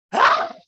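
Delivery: sudden loud burst of breath; short, explosive demonstrated huff of anger; angry outburst. Shown as a demonstration. Showing the group somebody expressing anger, a sudden wordless burst. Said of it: "when somebody expresses anger".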